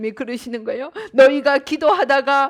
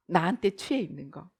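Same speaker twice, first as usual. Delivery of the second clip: softer, lower, savoring the self; dreamy; 7 semitones lower, 8 dB quieter than usual. Shown as a demonstration. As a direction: whisper it as if drunk on yourself. Repeated softly, self-intoxicated. (자기에게 취한 듯 낮고 부드럽게)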